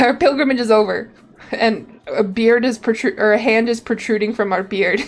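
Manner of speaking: reading game text aloud as a tale; story narration. Acted. Streamer reading the pilgrimage's end to viewers, story narration. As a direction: narrate it like a travel chronicle.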